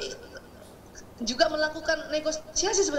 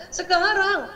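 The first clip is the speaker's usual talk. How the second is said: higher, louder demanding yell; child yelling; 8 semitones higher, 6 dB louder, much slower than usual. Retold or imitated. Child yelling at mother for ice cream now, loud. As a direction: push it like a child who won't give in. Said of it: "tambah teriak dia".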